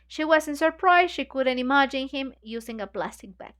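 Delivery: reading a novel aloud to the group; measured, even reading voice; story narration. A narrator's reading. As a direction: read the passage steadily, like a book club reader.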